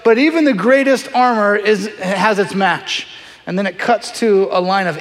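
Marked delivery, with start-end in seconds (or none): 0.0-3.1 English narrator voice. Retold or imitated. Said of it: "the guy with the English accent".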